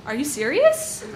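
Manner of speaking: a light half-laughing are you serious; mild disbelief. Retold or imitated. To the mugger, half-laughing disbelief. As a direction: ask it as if it must be a joke. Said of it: "I asked".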